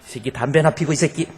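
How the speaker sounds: mock angry muttered curse at the son; father spits out a curse in disgust; angry father cursing. Father storms off cursing his smoking son, angry. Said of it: "야, 이러더라는 거예요".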